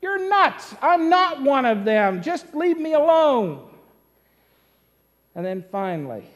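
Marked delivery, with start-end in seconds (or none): 0.0-3.7 emphatic denial. Acted. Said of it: "he more emphatically says".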